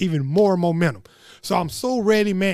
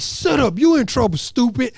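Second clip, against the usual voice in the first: put-on higher-pitched childish retort; defensive comeback; 4 semitones higher than usual. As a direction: fire back like a teased second grader. Retold comeback to teasing classmates.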